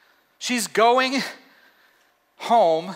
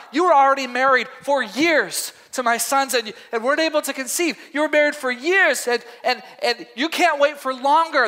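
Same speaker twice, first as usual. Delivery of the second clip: lightly voiced Naomi, higher and earnest; a hint of Naomi pleading with her daughters; Naomi reasoning; 5 semitones higher than usual.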